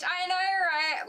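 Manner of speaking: high, loud and slow, gushing; excited agreement. Real, not acted. Streamer answers chat about the sticker village, gushing. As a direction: drag it out with delight.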